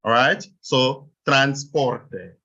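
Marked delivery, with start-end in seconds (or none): 1.3-2.4 transporte drawn out very slowly; syllable division demo. Shown as a demonstration. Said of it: "the division is made before the last consonant".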